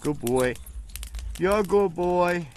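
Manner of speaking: slow, drawn-out praise; slow dog praise. Real, not acted. Owner slowly praising his dog after it obeys.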